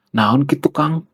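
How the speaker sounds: gently lilting Sundanese question, rising on Kang; imitasi Sunda lembut. Acted. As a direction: imitate someone too polite to sound angry. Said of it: "ngomongnya itu lembut banget". (menirukan teguran Sunda yang lembut)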